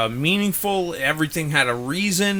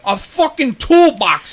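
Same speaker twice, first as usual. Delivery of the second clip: emphatic; 8 semitones higher, 7 dB louder than usual. Real, not acted. Emphatic wrestling recap.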